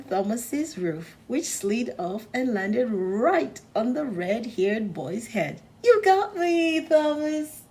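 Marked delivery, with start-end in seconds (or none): 5.8-7.6 put-on laughing boy. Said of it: "laughed the boy".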